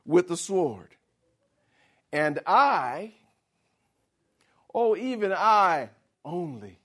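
boastful Elijah, self-pitying; self-righteous boast. Acted. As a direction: puff up like the Lord's best soldier. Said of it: "In other words".

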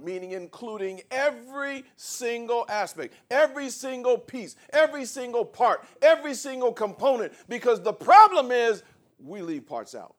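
high, driving pulpit repetition; rising, forceful sermon cadence; emphatic preaching. Real, not acted.

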